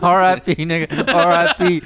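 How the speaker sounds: high, loud taunting chant; gleeful taunt. Retold or imitated. Teammates taunting the killed player, high gleeful taunt. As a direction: crow it over the kill.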